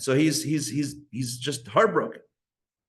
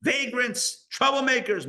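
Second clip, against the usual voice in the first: mock official tone; 10 semitones higher than usual. Listing police's reasons in mock tone.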